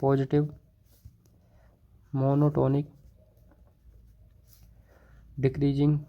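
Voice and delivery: slow, word by word, long gaps between words; slow dictation. Shown as a demonstration. Teacher dictating a theorem to students, slow and spaced. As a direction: dictate each word so students can write it. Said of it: "मैं बोलता हूँ, आप उससे लिख सकते हो".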